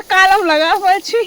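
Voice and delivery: slow, drawn-out mom impression; lightly voiced mother, slowed right down; mimicking mom's dialect line. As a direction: stretch each word like mom calling from afar. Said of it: "mummy बोलती है".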